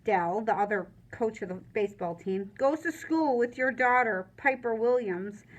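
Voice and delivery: prim indignant letter voice; stiff formal letter read. Acted. Mother writing to the warden, prim and indignant. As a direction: read it like an offended society lady.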